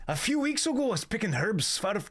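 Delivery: high-starting, wobbly Scottish slipping into Irish; Irish-tinged Scottish attempt. Streamer attempting Scottish for a quest-giver, accent slipping into Irish. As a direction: try Scottish and slide into Irish. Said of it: "that went Irish immediately".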